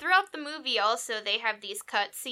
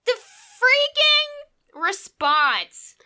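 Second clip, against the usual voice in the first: gushing; 11 semitones higher, 4 dB louder, much slower than usual. Real, not acted. Gushing about movie line.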